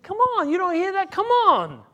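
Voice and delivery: high, loud pleading call; father pleading at the door; coaxing. Acted. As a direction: beg him to come in.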